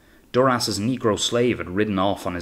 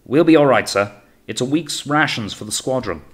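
loud, raised, urging call; calling reassurance; 5 semitones higher, 5 dB louder than usual. A narrator's reading. Officer in longboat urges his captain, calling up. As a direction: persuade the captain across the water.

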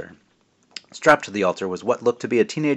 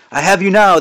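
much higher and louder triumphant cry; witch's shout; 10 semitones higher, 9 dB louder than usual. Acted. Old witch shouts at Jack in triumph. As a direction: shout it while taking aim. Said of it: "the old woman shouted".

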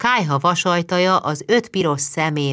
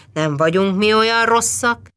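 teasing, higher and louder; joking; 6 semitones higher, 4 dB louder than usual. A narrator's reading. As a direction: tease her playfully, don't be so scared. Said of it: "tréfált Báthori úr".

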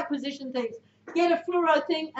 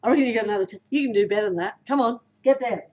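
lower, steady coaching push; encouraging push; 5 semitones lower, faster than usual. Shown as a demonstration. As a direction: urge them to find more. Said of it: "Do you see how I say it versus that was weak".

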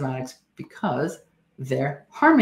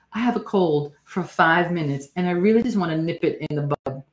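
whiny patient; 2 semitones higher than usual. Retold or imitated. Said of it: "that's such a classic statement".

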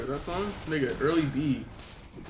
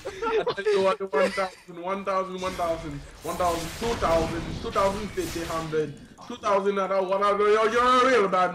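auctioneer; 3 semitones higher than usual. Pretend. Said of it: "you should be one of those, like, auctioneers".

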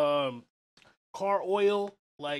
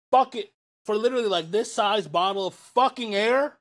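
loud, higher outraged rant; 5 semitones higher, 9 dB louder than usual. Real, not acted. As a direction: rant loudly about the price. Ranting about canned oxygen.

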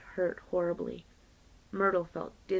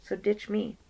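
defiant; 2 semitones higher than usual. Acted. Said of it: "said Hobie defiantly".

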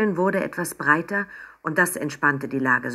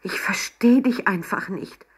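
higher-pitched, pained disappointment; despairing reproach; 6 semitones higher than usual. A narrator's reading. Mama shakes her head at Emma, despairing. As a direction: lament it with helpless regret.

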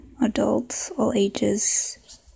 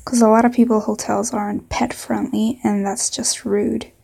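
put-on southern accent. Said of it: "maybe a southern accent".

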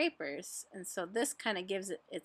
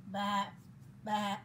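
sheep's bleat. Acted. Sheep calling to the busy spider, bleating. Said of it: "bleated the sheep".

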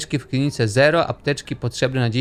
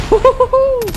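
very high, loud whoop; gleeful uhuhu shooting up high; excited whoop; 7 dB louder, slower than usual. Real, not acted. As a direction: whoop loudly at the destruction. Whoops while blowing things up.

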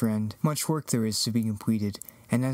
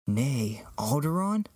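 whispered surprise. Acted. Surprised at destination.

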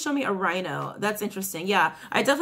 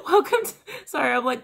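laughing; 5 semitones higher, 3 dB louder than usual. Real, not acted. Laughing while greeting viewers.

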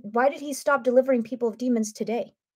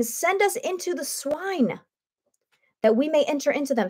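begging demons; 4 semitones higher than usual. Retold or imitated. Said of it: "Begged him, saying".

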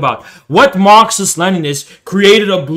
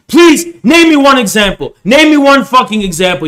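angry demand; 6 semitones higher, 5 dB louder than usual. Real, not acted. Demanding an example from the opponent.

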